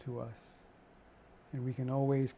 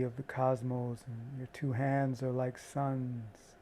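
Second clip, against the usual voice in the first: guided meditation. Acted. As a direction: guide them gently into calm. Guided meditation on energy flow.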